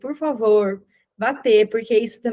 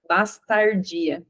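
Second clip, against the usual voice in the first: inner voice; 3 semitones lower, much slower than usual. Retold or imitated. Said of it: "assim, ó, dentro de mim".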